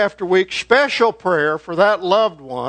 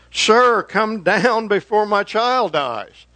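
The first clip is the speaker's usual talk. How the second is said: higher, drawn-out retold plea; desperate cry; 4 semitones higher, slower than usual. Royal official begs Jesus for his dying child, desperate cry. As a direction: imitate a father urgently crying out, without shouting. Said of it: "He just cries out".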